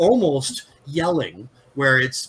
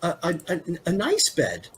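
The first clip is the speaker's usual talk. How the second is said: troubled; 5 semitones higher than usual. Acted. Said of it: "she looks a little troubled".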